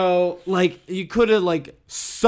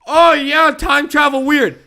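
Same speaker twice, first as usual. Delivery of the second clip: high, loud, slow goofy voice; dopey character voice; 7 semitones higher, 4 dB louder, slower than usual. Retold or imitated. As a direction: play it dim and casual. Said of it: "point A".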